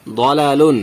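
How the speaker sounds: দলালুন opening on rounded "daw"; thick দ, then long "laa" in দলালুন; heavy pronunciation. Shown as a demonstration. Teacher reading the example word, heavy rounded start on দলালুন. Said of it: "তাহলে কি হবে উচ্চারণ?".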